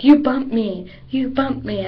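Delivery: jab the accusation twice; rude repeated complaint. Retold or imitated. Cheerleader mocking a rude girl at the gym door, a touch pushy. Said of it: "I can't handle the situation, like".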